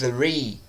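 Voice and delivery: "Three" opening on a long, exaggerated TH; "Three" with a drawn-out TH, slowly demonstrated; tongue-between-teeth TH. Shown as a demonstration. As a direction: push air over the tongue to start "Three". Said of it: "coloca a sua língua entre os seus dentes".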